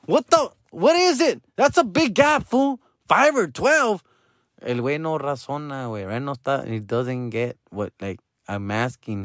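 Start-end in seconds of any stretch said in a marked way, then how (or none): 0.1-4.0 high, stunned disbelief; incredulous. Retold or imitated. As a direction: react like it makes no sense. Dad reacts to absurd answer.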